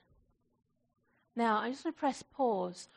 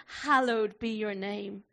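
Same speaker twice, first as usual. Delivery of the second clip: reverent, slow; 2 semitones lower than usual. Shown as a demonstration. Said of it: "that's beautiful, isn't it?".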